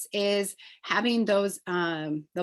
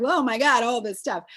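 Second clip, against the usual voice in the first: a louder, higher burst on oh my God, then settling; excited gasp; 4 semitones higher, 6 dB louder than usual. Retold or imitated. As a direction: gush over the pile of products. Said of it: "I'm like".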